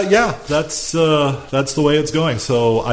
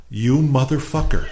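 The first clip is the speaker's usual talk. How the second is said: calm. Retold or imitated. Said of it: "I said it about that calmly".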